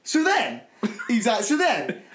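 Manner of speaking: mate's high voice. Retold or imitated. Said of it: "He went".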